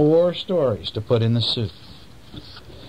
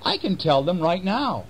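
mouse voice; 7 semitones higher than usual. Acted. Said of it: "said the mouse".

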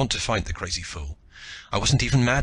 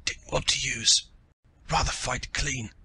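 breathless, hoarse gasping words; 5 semitones higher than usual. Acted. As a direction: gasp it out with no breath left. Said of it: "gasped in a hoarse voice".

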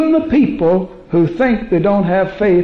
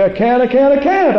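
emphatic; 5 semitones higher than usual. Retold or imitated. Woman in Chicago insisting she can't speak in tongues, emphatic and rising. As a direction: hammer each I can't harder than the last. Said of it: "she said it very emphatically".

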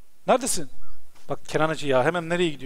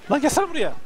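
calling out; 9 semitones higher than usual. Real, not acted. Calling his horse Kamuran.

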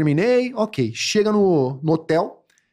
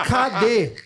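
high demand through a laugh; laughing imitation; 4 semitones higher than usual. Man mimics the girl asking where it is: laughing through it. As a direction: ask where it is while cracking up.

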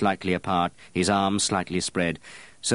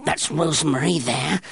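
strange crowing gnome; 4 semitones higher than usual. Acted. Apprentice naming scents in the dark room to the perfumer, crowing. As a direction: point them out one by one, gleeful.

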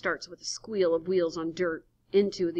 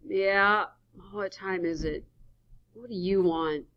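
sleepy; 2 semitones higher, 5 dB louder than usual. Acted. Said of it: "Sleepy man's voice".

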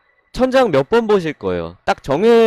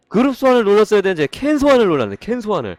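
flustered realization; 6 semitones higher, 4 dB louder, faster than usual. Real, not acted. Realizing a pulling mistake.

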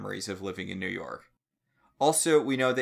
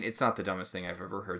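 usual speaking voice

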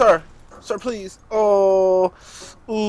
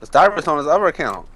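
louder, clearer repeat; 6 dB louder than usual. Real, not acted. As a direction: say it again for someone who missed it.

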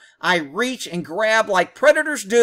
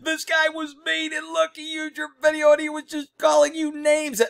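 high nagging mimicry of a tattling viewer; mock tattletale; 9 semitones higher than usual. Rick mimics a viewer reporting him to the woman, high nagging voice. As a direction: mimic a busybody snitching, pitched high.

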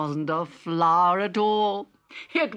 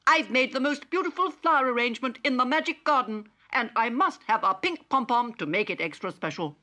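a touch higher, quick robot chatter; Digby; 5 semitones higher, faster than usual. Acted. Digby tells Polly about his arrangement, quick and proud. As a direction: hurry it out proudly in the small robot voice.

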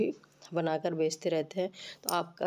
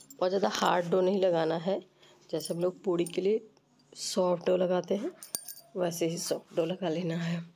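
voice rough from a cold. Real, not acted. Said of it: "मेरी आवाज़ थोड़ी सी आज ख़राब हो गई है, मुझे सर्दी जुकाम हो गया है".

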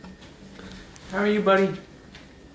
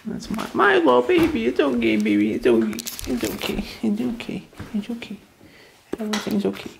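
soothing a scared dog; 4 semitones higher than usual. Real, not acted. Comforting scared dog, repeated okays.

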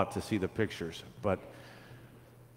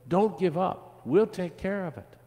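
put-on eager children's plea, pitched up; begging; 9 semitones higher than usual. A narrator's reading. Children promise to tend the tree, high begging. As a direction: urge it in a high, earnest voice. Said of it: "the children begged".

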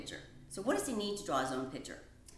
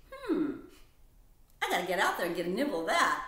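mouse voice; 7 dB louder, faster than usual. Acted. Mouse voice in kids story.

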